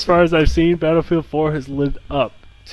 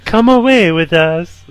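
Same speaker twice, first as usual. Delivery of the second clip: slow, higher dreamy ad line; cheesy ad voice; 6 semitones higher, 5 dB louder, slower than usual. Retold or imitated. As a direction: croon it like a cheesy commercial. Quoting Wii commercial.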